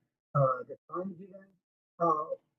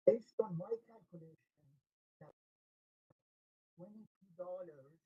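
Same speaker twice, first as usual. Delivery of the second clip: bad connection, words fading away. Real, not acted. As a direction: voice dropping out. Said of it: "we're not able to hear you clearly".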